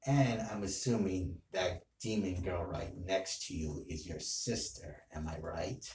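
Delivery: a hint of a quiet, menacing demon villain; villain role play. Villain confronting Tanjiro, softly menacing. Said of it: "that's role play".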